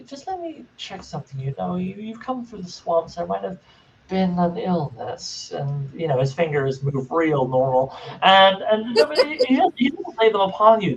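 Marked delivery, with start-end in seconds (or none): 0.0-5.5 creature voice. Acted. GM voicing Gribblegast.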